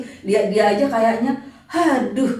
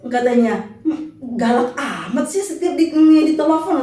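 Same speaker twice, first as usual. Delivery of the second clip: his gentle complaint, retold through laughter; laughing quote; 8 semitones higher, 4 dB louder, slower than usual. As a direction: giggle while quoting him. (mengutip sambil tertawa)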